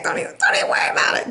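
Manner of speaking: fast breathy whisper. Real, not acted. Tarot reader to Libra, whispering reassurance. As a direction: hush it quickly like a secret. Hushed aside to viewer.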